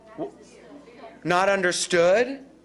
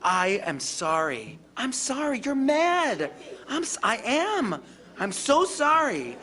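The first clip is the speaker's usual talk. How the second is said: gentle apology; 3 semitones higher than usual. Shown as a demonstration. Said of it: "But I would physically say".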